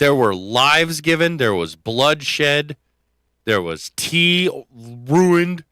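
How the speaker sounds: slow, grave, hammed-up lament; mock solemn. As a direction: mourn the ruined tea like fallen heroes.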